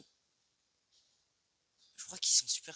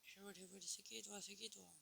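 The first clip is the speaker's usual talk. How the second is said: playful; 8 semitones higher, 9 dB quieter than usual. Pretend. Playful higher taunting voice.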